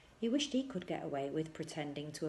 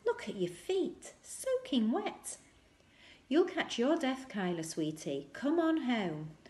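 fussing mother; 4 semitones higher, 4 dB louder than usual. Acted. Mother scolds children about wet feet, high and fussing. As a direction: nag the soaking child home.

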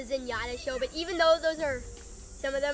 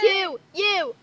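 movie voice; 6 semitones higher, 5 dB louder than usual. Pretend. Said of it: "That's your movie voice?".

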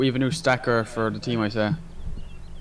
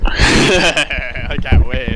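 long mooing drawl; cow voice; 2 semitones higher, 9 dB louder, much slower than usual. Pretend. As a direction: moo the words out slowly. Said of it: "Why do you sound like a cow?".

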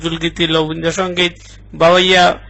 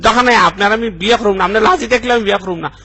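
scared; 3 semitones higher, faster than usual. Acted. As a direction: back out frantically, pitch raised. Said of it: "আমি খুব ভয় পাইছি". (ভয়ে চড়া গলায় হড়বড় করে)

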